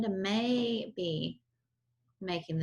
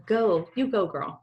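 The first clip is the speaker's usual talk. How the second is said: cheer; 5 dB louder, slower than usual. Real, not acted. Cheering friend's clean bathroom.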